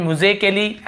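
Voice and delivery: musically drawn out slowly, the a silent; musically said very slowly, the a left silent; slow demo. Shown as a demonstration. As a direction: spell musically out slowly for students. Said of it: "इसे आप म्यूजिकली है ना".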